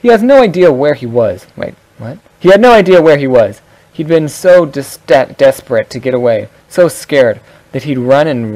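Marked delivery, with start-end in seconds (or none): 0.0-1.5 happy-go-lucky voice. Shown as a demonstration. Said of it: "here goes my happy-go-lucky voice". 2.4-6.1 bright, louder happy-go-lucky read. Shown as a demonstration. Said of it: "here goes my happy-go-lucky voice".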